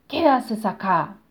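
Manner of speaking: slow, loud roaring giant; fire giant voice. Acted. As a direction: roar it slowly as the giant. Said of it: "rugió el gigante". (voz de gigante de fuego que ruge)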